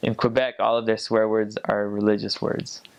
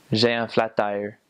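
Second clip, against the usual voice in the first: Quebec French with English "flat tire"; lightly demonstrated Quebec French accent. Shown as a demonstration. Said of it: "that's the accent that they use".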